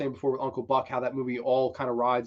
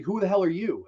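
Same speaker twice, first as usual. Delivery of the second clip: raised-pitch demand from a puzzled stranger; retold challenge; 5 semitones higher than usual. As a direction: act out a mildly indignant question. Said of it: "He's like".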